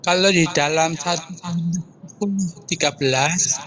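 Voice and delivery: suara terputus-putus; radio breaking up. Real, not acted. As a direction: sinyal jelek, suara patah-patah. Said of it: "Suaranya putus-putus". (suara putus-putus karena sinyal)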